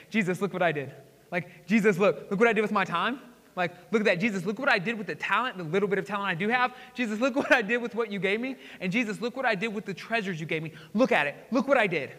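eager, proud look-what-I-did voice; a child showing a parent its work; excited showing off. Retold or imitated. To Jesus, proudly showing what he did, excited. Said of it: "You see the excitement in my face?".

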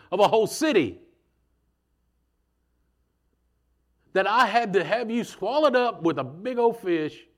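voicing God's loud rebuke; preaching rebuke. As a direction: hammer the point home, building.

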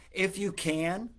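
"If you can" slow, rising high on "If"; slow questioning echo. Shown as a demonstration. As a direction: linger on the doubt in "If". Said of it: "said Jesus".

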